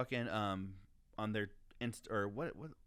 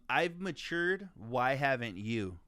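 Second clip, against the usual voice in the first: mocking quote; slower than usual. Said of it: "And I quote".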